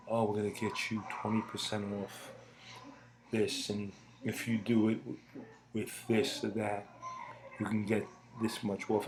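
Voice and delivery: unhurried, soft sales pitch; calm commercial voice. Retold or imitated. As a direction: ease the viewer into the deal calmly. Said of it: "very calm demeanor".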